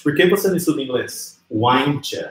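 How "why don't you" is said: "Why don't you" squeezed into "why-ncha"; pronúncia natural reduzida. Shown as a demonstration. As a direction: run "Why don't you" together as two syllables, why-ncha. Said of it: "você vai pronunciar assim". ("Why don't you" juntado como "uainchã")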